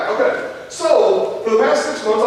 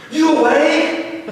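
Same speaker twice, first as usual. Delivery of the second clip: put-on higher, slow little boy voice with a laugh; child asking; 7 semitones higher, much slower than usual. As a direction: stretch it out like a curious kid. Son asks dad at 5 AM.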